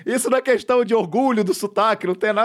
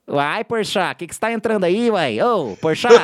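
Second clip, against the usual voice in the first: put-on Minas Gerais accent. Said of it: "quando eu tinha sotaque mineiro".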